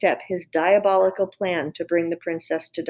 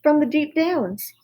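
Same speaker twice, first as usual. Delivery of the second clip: shouted; 8 semitones higher than usual. Acted. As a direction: yell it out proudly to the cook. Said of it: "she shouted".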